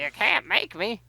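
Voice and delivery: high, slow taunting refusal; mock defiance. Friend drawing out a defiant taunt at the goat. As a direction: drag out the childish taunt.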